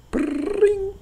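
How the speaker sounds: a high ringing noise rolled on the r; high-pitched brrrring of a phone. Acted. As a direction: mimic a telephone ringing. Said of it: "Go. You have to answer the phone".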